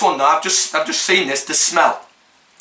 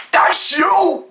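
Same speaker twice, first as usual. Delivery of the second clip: mocking; 8 semitones higher than usual. Real, not acted. Mocking the reader.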